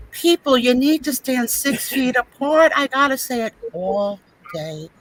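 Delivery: lightly voiced tired pharmacy worker, with sighs; a hint of weary Angela grumbling about her customers; Angela impression. Mocking Angela's after-work complaints, mildly worn out. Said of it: "so here's my Angela".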